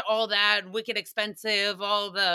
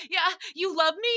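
hopeful guess; 9 semitones higher, 3 dB louder than usual. Retold or imitated. Retold hopeful guess to crush.

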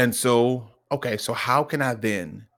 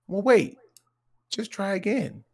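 higher, coaxing encouragement; reassuring dad; 8 semitones higher than usual. Retold or imitated. Dad telling son to try again, reassuring. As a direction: gently urge a child on, pitch lifted.

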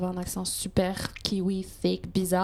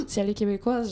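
mock gasp; faster than usual. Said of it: "presque avec la peur de".

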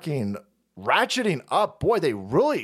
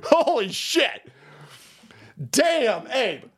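higher, slow, drawn out in awe; Holy shit said higher and slower; stunned; 5 semitones higher, much slower than usual. Real, not acted. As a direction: let the disbelief hit. Repeats in disbelief.

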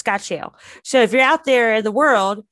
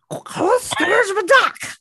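laughing; 11 semitones higher, 4 dB louder, much slower than usual. Real, not acted. Incredulous repeat, laughing.

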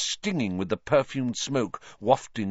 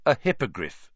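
firm; 2 semitones higher than usual. Acted. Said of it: "he said firmly".

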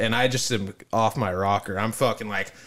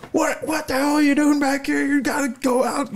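much higher, lightly hammed-up staff voice; high mock employee; 13 semitones higher than usual. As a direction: play the bossy haunted-house worker. Employee voice in retold story.

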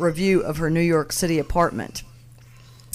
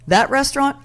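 fake posh accent; 8 semitones higher, 4 dB louder than usual. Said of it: "in some accent she does".

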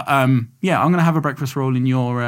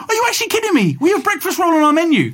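high, outraged disbelief; are you kidding me, pitched up; indignant disbelief. Real, not acted. Outraged at the menu challenge.

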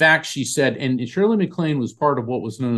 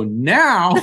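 higher, louder incredulous "Now?"; startled echo; 6 semitones higher, 5 dB louder than usual. Retold or imitated. Guest retelling his reaction to his manager, startled. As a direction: throw it back in disbelief.

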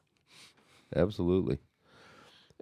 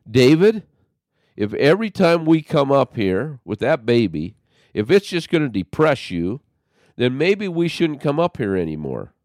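louder and much higher, sharp angry warning; angry confrontation; 7 semitones higher, 6 dB louder than usual. Retold or imitated. Confronting David across the prison table, loud and angry. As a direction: let him have it, raised and cross. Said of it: "And I was mad".

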